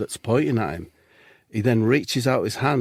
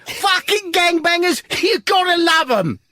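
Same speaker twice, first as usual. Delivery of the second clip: triumphant shout; 4 dB louder than usual. Acted. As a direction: belt the punchline out with glee. Cop's triumphant punchline.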